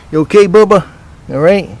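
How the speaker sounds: high pet talk. Real, not acted. Man asking his cat if it's okay, high and loud pet talk.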